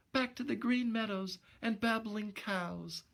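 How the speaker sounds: a sorry dame vowing to go straight; repentant young woman. Acted. Narrator voices Gloria.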